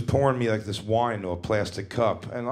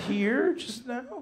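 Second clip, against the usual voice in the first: put-on timid, nervous, very high-pitched voice; 13 semitones higher than usual. Retelling being told to undress in a hotel room: imitating own nervous, meek reply. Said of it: "rape victim-y about it".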